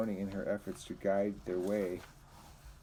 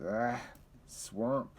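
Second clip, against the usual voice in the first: disgust; 3 semitones higher than usual. Acted. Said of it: "he said in disgust".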